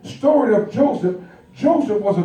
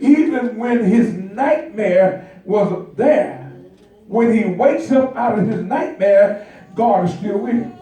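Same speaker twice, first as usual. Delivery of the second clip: preaching build. Acted. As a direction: lift the congregation toward victory. Sermon building to climax.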